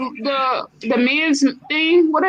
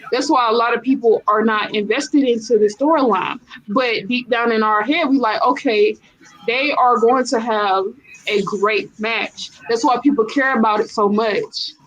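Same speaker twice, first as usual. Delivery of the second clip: fiery trash-talk promo; wrestling promo. Pretend. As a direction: call out a rival like a heel wrestler. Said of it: "I'm about to cut a promo".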